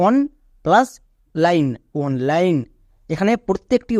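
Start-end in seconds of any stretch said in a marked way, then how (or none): 1.3-2.6 "লাইন, অনলাইন" drawn out, "ine" said as "আইন"; slow pronunciation demo. Shown as a demonstration. Teacher builds a word for pupils, slowly sounding it out. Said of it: "এদের উচ্চারণ করবে আইন".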